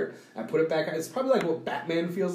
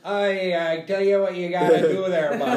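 put-on jokey Canadian accent, laughing through it, a bit louder; 2 semitones higher, 5 dB louder than usual. Mocking a Canadian survival host in a laughing Canadian accent. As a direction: ham up a friendly Canadian woodsman accent. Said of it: "we don't even sound like that, bud".

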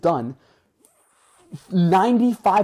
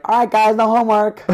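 defeated teacher; 8 semitones higher, 4 dB louder than usual. Retold or imitated. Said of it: "He's like".

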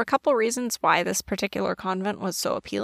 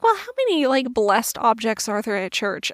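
incredulous; 3 dB louder than usual. Retold or imitated. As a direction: rattle it off in disbelief. Retold own incredulous reaction.

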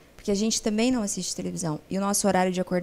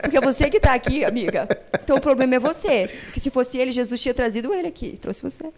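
raised, emphatic retold comeback; blunt confrontation; 3 semitones higher, 3 dB louder than usual. Counsellor turning blame back on complaining wife, blunt retold confrontation. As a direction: put the client on the spot, playfully blunt. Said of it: "eu falo".

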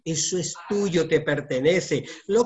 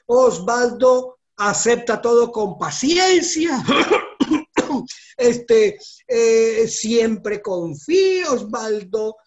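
1 declaración a gritos; 5 semitones higher, 6 dB louder, slower than usual. Acted. Declara su nombre con emoción.

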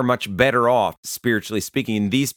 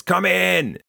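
high called-out "come in" through a door; retold yell; 9 semitones higher than usual. Lady calling to the pastor at her door, high called-out. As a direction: call from inside the house, pitched up high. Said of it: "she yells from within and says".

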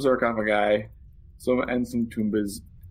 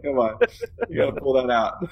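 excited urging; 5 semitones higher, faster than usual. Retold or imitated. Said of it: "urging the character on".

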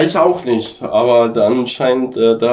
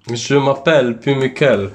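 mock French. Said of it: "das ist Ladinisch".

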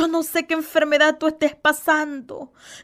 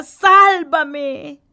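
shouted plea; 5 dB louder than usual. Acted. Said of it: "le grita".

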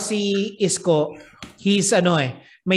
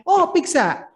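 hammed-up comic reveal, slowing at the end; parody gay man; slower than usual. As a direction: land the punchline in a playful put-on voice. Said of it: "yung Len Len na parody".

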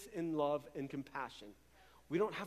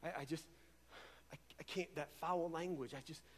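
hushed Holy Spirit voice; 4 semitones lower, 8 dB quieter than usual. Retold or imitated. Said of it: "The Holy Spirit is just like".

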